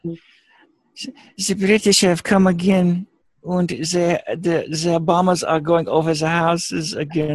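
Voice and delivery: slow, high German officer voice; Colonel Klink. Pretend. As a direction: play the pompous camp commandant. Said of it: "You sound like Colonel Klink".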